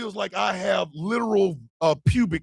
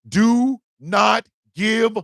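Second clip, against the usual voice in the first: rallying shout; 5 semitones higher than usual. Real, not acted. Urging viewers not to give up, shouting and fired up. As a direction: rouse the crowd.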